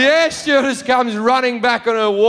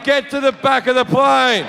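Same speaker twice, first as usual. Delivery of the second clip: raised, somewhat milder replay of the yell; 3 semitones higher than usual. Retold or imitated. What onlookers saw, man pointing and yelling. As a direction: re-enact the yelled order, pitched up.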